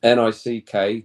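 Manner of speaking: slow letter by letter N I C K; spelling it out. Shown as a demonstration. Spelling the name for Steve, slow letter by letter. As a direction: spell out each letter of Nick. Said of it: "spelling the name".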